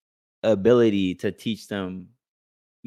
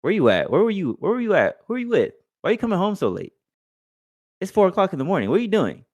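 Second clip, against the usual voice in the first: much higher, pitch climbing as the questions pile up; a boy cross-examining his mom like an angry parent; kid scolding mom; 9 semitones higher, faster than usual. Retold or imitated. Boy grilling his mom about coming home at four, high-pitched scolding. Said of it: "He's like".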